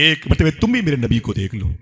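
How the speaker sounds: acted pleading, voice lifted; tearful plea. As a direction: beg the mother as a tearful son. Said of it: "Abu किरसाफा रो के बोले".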